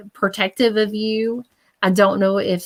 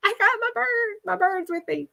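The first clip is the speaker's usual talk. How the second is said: spirit quote; 12 semitones higher, 6 dB quieter than usual. Retold or imitated. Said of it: "You gotta tell him".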